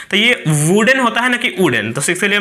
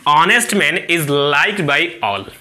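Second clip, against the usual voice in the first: slow reading; much slower than usual. Shown as a demonstration. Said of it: "इसके लिए भी N का प्रयोग होगा".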